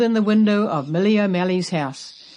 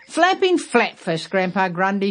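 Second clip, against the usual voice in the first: surprised exclamation. Acted. Millie exclaims again.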